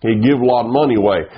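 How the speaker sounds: rapid Tennessee hills twang; fast, run-together Tennessee mountain speech; Tennessee hill-country accent. Shown as a demonstration. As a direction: rattle it off like Tennessee hill folk. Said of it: "up in the hills of Tennessee".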